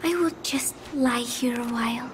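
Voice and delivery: whispered and drowsy; a tired girl whispering to herself. Acted. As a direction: barely breathe the words out.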